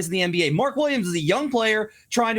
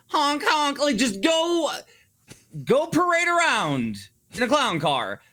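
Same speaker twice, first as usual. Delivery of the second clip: silly clown; 6 semitones higher, slower than usual. Real, not acted. Ranting, mocking teams as clowns.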